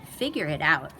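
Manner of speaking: a hint of gruff monsters. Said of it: "said the monsters".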